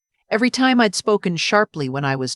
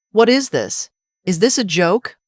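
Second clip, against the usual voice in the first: upset disbelief; 3 semitones higher than usual. Acted. Daughter upset at letter.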